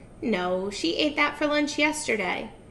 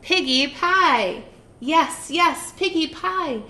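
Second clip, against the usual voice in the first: greedy witch; 5 semitones higher, 5 dB louder than usual. Acted. Witch gloating over dreams of piggy pie. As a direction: savor every word like a hungry hag. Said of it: "Gritch said, smacking her lips".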